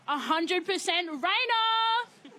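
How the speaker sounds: loud and drawn out, slow; loudest voice. Acted. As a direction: belt it out slowly like a chant. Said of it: "repeat in your loudest voice".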